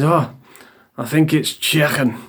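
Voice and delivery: imitated Scouse accent on "chicken". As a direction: say "chicken" with mock Scouse vowels. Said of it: "they don't know what vowels do".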